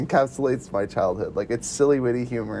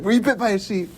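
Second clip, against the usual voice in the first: silly quiz voice; 6 semitones higher than usual. Retold or imitated. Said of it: "It's like".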